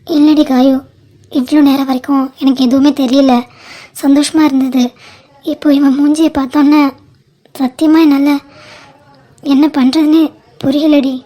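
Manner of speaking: a sister crying at her wedding reception; tearful. Acted. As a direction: pour out her grief while weeping. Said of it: "அக்கா, அழாதக்கா".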